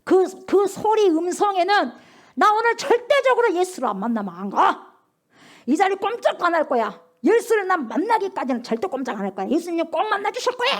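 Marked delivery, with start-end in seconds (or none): 2.4-10.7 mild mock shout. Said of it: "온 힘을 다해서 그냥 다 소리 지른".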